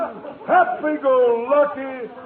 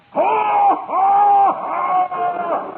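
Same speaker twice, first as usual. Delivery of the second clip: hearty Santa laugh; 8 semitones higher, 4 dB louder, much slower than usual. Acted. Conklin's delighted Santa laugh.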